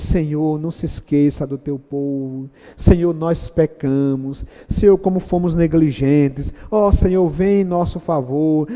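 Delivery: soft, contrite pleading; a touch of sorrowful pleading; humble prayer. Acted. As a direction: pray low and repentant. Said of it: "Daniel ora, diz".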